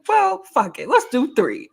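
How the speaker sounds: high-pitched imitation of eager friend; retold over-excitement. Co-host retelling her friend's plan, mock excited. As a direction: mimic a friend's excited decision. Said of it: "You're a little too excited".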